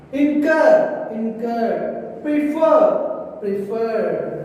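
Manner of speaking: "Incur" and "Prefer" weighted on the final syllable, cur and fer; teacher demonstrating end stress in "Incur" and "Prefer"; stress on last syllable. Shown as a demonstration. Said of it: "giving some stress at the last".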